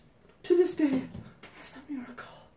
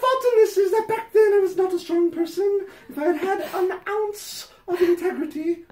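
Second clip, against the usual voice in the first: hammed-up letter voice; 4 semitones higher than usual. Reading the letter to Patty, hammed-up prim voice. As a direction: read it like a sanctimonious fan pouring her heart out. Reads fan letter aloud.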